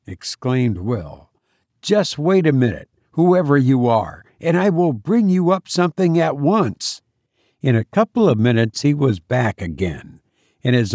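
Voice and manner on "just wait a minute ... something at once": slightly raised, obliging sailor's voice; a touch of hearty eagerness; lightly voiced eager helper. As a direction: offer help readily, pitched a little up. Narrator voices Will helping the stranger.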